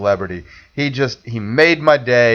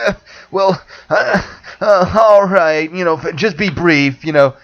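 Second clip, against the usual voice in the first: hesitant, higher mock handler voice; reluctant handler; 5 semitones higher than usual. Handler putting off a fan, mock reluctant stalling. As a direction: stall and brush him off. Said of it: "And the guy's like".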